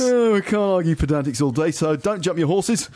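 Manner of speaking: high-pitched put-on character voice; hammed-up office colleague laying down the law; earnest office chap. Replaying office chap's phrases.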